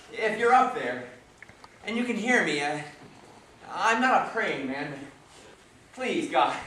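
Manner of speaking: broken man asking God for help; desperate prayer. Acted. Desperate man praying alone.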